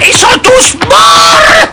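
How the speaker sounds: alarmed cry. Acted. Alarm at finding animals still.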